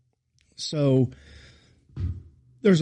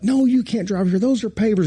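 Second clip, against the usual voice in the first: mock scolding; 8 semitones higher than usual. Groundsman scolding the pastor about the pavers, mock anger. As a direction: lecture him like the angry groundsman. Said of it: "he's just".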